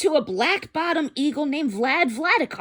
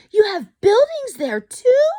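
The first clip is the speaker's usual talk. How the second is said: much louder, higher astonished Horton; gasping amazement; 12 semitones higher, 9 dB louder than usual. Acted. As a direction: gasp it out in disbelief. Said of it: "Horton gasped".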